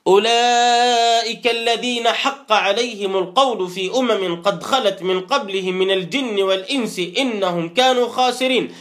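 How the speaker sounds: slowed, reverent recitation; Quran recitation. Acted. Recites verse in lesson.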